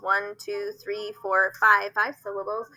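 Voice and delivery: one, two, three, four, five counted in even beats; counting syllables. Shown as a demonstration. Teacher to parents, counting syllables. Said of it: "how many syllables".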